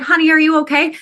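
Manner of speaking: a hint of a sweet motherly stranger; lightly voiced caring lady; kind older woman voice.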